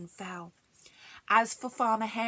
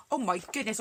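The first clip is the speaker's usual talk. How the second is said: surprised; 4 semitones higher, faster than usual. Real, not acted. Reacts to the story.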